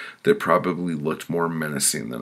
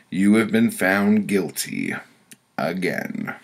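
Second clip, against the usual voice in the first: stern pronouncement, pitched up; higher-voiced woman passing judgment; committee woman; 4 semitones higher, 3 dB louder than usual. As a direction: hand down the verdict as the judging woman. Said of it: "A woman with white curly hair spoke".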